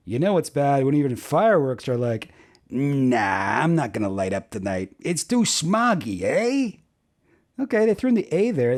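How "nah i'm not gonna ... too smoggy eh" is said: mock Canadian. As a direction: joke punchline in a Canadian voice, rising on the eh. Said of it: "That's, like, Canadian".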